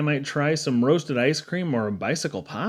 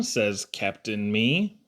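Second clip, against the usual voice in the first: smug reveal; 6 semitones lower, 5 dB quieter, much slower than usual. A narrator's reading. Smug punchline, slow and low.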